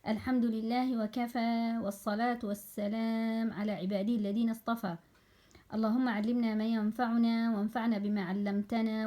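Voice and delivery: even, level chanted supplication; prayer recitation. Real, not acted. Teacher opens the lesson with a supplication, recited evenly. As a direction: recite the opening du'a in a steady, flowing monotone.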